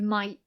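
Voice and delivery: might said without its final T, whispered; dropped T. Shown as a demonstration. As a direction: drop the T off might. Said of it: "You might have noticed, like the word might".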